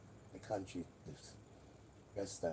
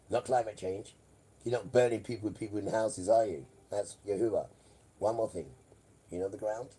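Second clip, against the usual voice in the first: louder ranting; 6 dB louder than usual. Real, not acted. Man lecturing his viewers about the fires, getting louder. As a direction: raise the voice and hammer it home.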